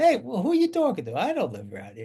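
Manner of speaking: put-on Jersey accent. Retelling own reply after being mistaken for someone else: jersey accent. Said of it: "my Jersey accent might, probably came off".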